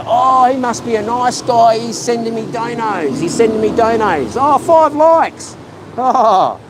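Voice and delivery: lightly put-on gushing fan, rising high on the last line; mocking simp voice. Streamer parodies fans who love the dono sender, lightly gushing.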